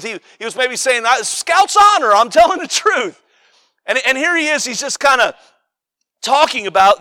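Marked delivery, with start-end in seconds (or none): 1.1-3.2 high, insistent imitated pledge; earnest vow. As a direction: protest your honesty, acted out. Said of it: "making some kind of solemn vow".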